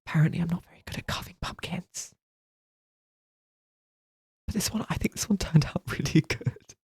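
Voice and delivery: unvoiced whisper with a laugh. Real, not acted. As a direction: whisper it, amused. Whispered aside.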